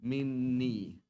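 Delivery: Minni with a held double n, falling; Minni, doubled n, firm fall; clear demo. Shown as a demonstration. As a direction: land Minni firmly with doubled n. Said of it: "So minni".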